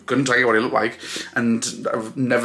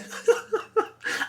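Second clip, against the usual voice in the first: teary laugh; 4 dB quieter than usual. Real, not acted. Tearful laugh after losing composure.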